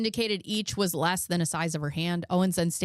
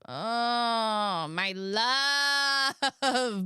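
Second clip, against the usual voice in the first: drawn-out, higher-pitched weepy wail; mock crying; 5 semitones higher, much slower than usual. Wife touched by husband's compliment, mock tearful wail. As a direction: wail it like you're melting into tears. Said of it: "I just remember crying".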